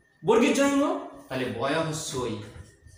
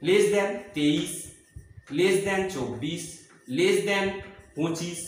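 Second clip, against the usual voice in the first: slow teaching read; much slower than usual. Shown as a demonstration. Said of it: "teacher reading out number sequence".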